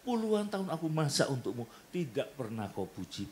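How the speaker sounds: high, loud shriek of a jealous wife with a laugh; wife's mock yell. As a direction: yell it at the husband like an offended wife. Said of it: "Si istri tiba-tiba teriak". (teriakan istri yang cemburu, setengah bercanda)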